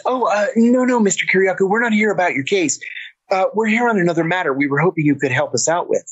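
placating agent. Retold or imitated.

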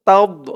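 তাওদ with a full, heavy final d; heavy Arabic dad. Shown as a demonstration. Teacher shows careful pronunciation, তাওদ with a heavy dad. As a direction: fill the mouth on the end of তাওদ. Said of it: "উচ্চারণটা খেয়াল করবেন".

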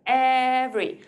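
"Every" drawn out loudly as EV-ry; loud, lengthened "Every" in two syllables. Shown as a demonstration. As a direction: stretch the start of "Every", drop the middle vowel. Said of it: "two syllables".

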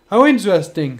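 loud, scheming villain. Acted. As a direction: gloat like a cartoon villain. Villain line in story.

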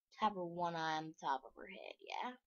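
fast soft whisper to herself. Real, not acted. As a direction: whisper it quickly under your breath. Kid whispering while designing face.

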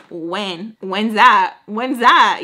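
loud, sassy taunting back. Retold or imitated. Daughter mouthing off to her threatening mom. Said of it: "getting stupid with her".

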